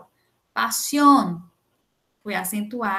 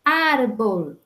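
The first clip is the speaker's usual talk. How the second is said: "Árbol" com o ÁR inicial forte; penúltima sílaba forte; 3 dB louder than usual. Shown as a demonstration. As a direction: bater na primeira sílaba de "Árbol". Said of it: "a penúltima sílaba for a sílaba mais forte". ("Árbol" acentuado no "Ár")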